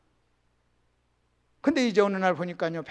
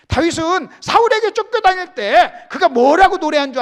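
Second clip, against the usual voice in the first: loud, high sermon cry; full-voiced preacher's shout; preaching at full force; 8 semitones higher, 11 dB louder than usual. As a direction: lift the congregation with a ringing call. Preacher building up.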